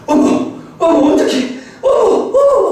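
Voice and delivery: high-pitched startled gasps of 'oh my'; startled wife. Retold or imitated. Wife suddenly alarmed at her phone in the car, startled. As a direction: imitate a wife's alarmed exclamations, rising sharply. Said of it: "제 아내가 그 놀래는 모습에".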